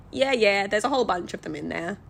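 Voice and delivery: put-on broad Australian accent; heavy Australian accent. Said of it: "in the heaviest Australian accent".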